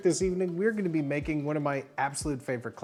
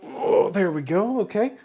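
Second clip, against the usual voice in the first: panting from crawling; breathless, straining effort; out of breath; 4 semitones higher than usual. Real, not acted. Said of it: "I'm out of breath".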